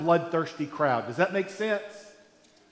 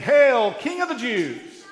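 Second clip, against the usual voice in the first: loud jeering mock salute, pitched higher; mocking hail; 4 semitones higher, 4 dB louder than usual. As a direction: sneer it like a soldier mocking a prisoner. Soldiers mocking Jesus.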